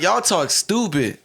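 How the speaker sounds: high, slow mocking complaint; mocking retort. Retelling his retort to his friends, mocking. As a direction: stretch it out high in disbelief. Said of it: "so then I'm like".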